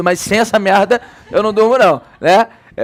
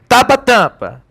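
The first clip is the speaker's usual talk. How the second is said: high, blocked-nose pronunciation demo; pinched-nose voice, pitched up; 4 semitones higher, 3 dB louder, slower than usual. Shown as a demonstration. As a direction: say it holding your nose shut. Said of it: "Fecha o nariz".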